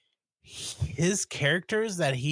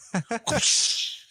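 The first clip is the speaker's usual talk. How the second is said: whip crack; 9 semitones higher than usual. Pretend. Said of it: "I wanna make the whip noise".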